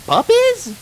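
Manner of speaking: very high, loud Southern puzzled; baffled farm pony; shrill surprise, Southern; surprised question. A narrator's reading. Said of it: "asked Applejack".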